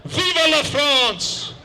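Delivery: yelled patriotic cry. Retold or imitated. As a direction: cry Vive la France slowly, chin up. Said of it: "the Frenchman yelled".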